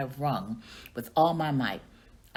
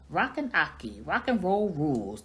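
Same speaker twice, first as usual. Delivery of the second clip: toy voice; 2 semitones higher than usual. Acted. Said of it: "the ball spun wildly".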